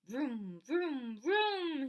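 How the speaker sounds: a little boy playing motorbike, revving up; motorcycle noises. A narrator's reading. Toddler on his bike making motorcycle noises, building to a yell. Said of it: "he yells".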